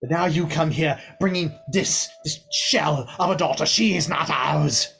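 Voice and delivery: a hint of a broken proud elf; grieving father. Father tells his grief.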